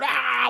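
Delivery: a short mock snarl like a cartoon devil; mock Tasmanian devil roar. Pointing at the camera, a mock Tasmanian devil snarl. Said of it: "like Tasmanian devil".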